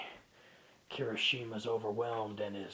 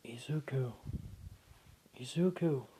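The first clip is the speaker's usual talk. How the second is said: soft gentle call. Acted. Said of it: "call out to him in a soft, gentle voice".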